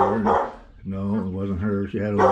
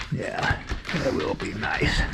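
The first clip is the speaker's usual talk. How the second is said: voicing the dog; 3 semitones higher, 6 dB quieter, slower than usual. Answering for the dog.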